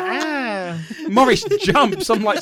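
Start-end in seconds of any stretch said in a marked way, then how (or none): 0.0-0.8 higher drawn-out "ah"; mock scare noise; imitated witch cry. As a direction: mimic the witch popping round. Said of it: "was like".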